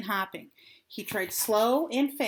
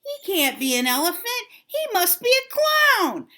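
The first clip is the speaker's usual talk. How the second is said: mocking laugh; 7 semitones higher, 5 dB louder than usual. A narrator's reading. Crowd mocks Dumbo.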